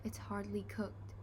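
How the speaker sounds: whispered. A narrator's reading. Dad whispering over the raw turkey, hushed. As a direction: keep it under your breath in dismay. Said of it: "he whispered".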